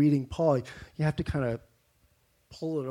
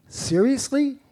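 higher, louder seriously of disbelief; can you believe this; incredulous; 9 semitones higher, 4 dB louder than usual. Retold or imitated. Preacher voicing Paul's disbelief.

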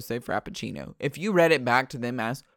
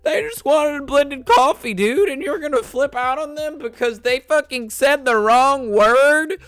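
heated rant; 10 semitones higher, 7 dB louder than usual. Real, not acted. Ranting about the rude worker.

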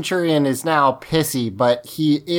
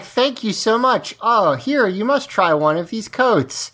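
lightly acted, higher-pitched gracious offer; gushing thanks; 5 semitones higher than usual. Woman pressing a coat on Blue Centurion, lightly gushing. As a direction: play up a sweet thank-you.

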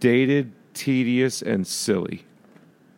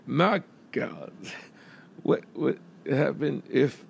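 soft, talking through clenched teeth; a weak try at a clipped TV host; Rod Serling voice; 3 semitones higher, 6 dB quieter than usual. Retold or imitated. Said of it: "I wish I could do a Rod Serling accent or just voice".

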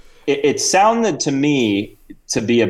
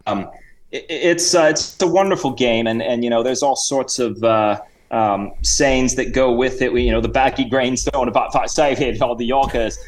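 hammed-up English gentleman. Reginald explains cricket to the hosts, in a put-on Cockney-Australian voice. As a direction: play the jolly visiting chap.

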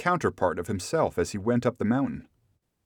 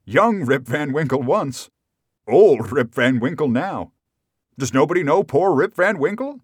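uncontained emotion; 6 semitones higher, 7 dB louder than usual. A narrator's reading. Rip begs crowd to know him, impassioned cry. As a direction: build to a high, pleading question. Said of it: "could contain himself no longer".

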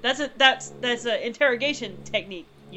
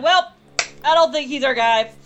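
loud announcement; 3 semitones higher, 6 dB louder than usual. Acted. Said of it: "he's like".

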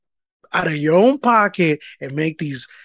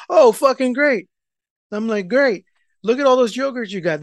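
raised-pitch mock enthusiasm; sarcastic praise; 6 semitones higher than usual. Husband seeing wife come out with yogurts, sarcastic. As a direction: feign delight, sounding put out.

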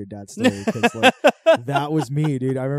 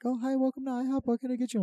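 imitating the waitress; 13 semitones higher, faster than usual. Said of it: "this lady was like".

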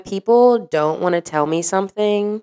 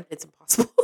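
muttered; 7 dB quieter, faster than usual. Real, not acted. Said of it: "Do what?".

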